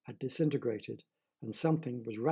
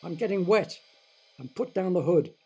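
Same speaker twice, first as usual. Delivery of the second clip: yelling; 3 semitones higher, 5 dB louder than usual. Acted. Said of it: "Roger yelled".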